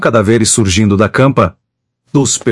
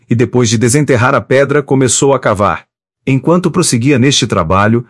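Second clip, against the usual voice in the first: usual speaking voice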